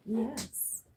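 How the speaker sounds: high, loud gushing praise for the dog; excited praise. Real, not acted. Dog found its toy.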